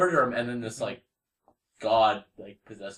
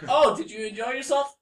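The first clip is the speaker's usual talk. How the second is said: imitating the wife; 9 semitones higher than usual. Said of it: "the wife was like".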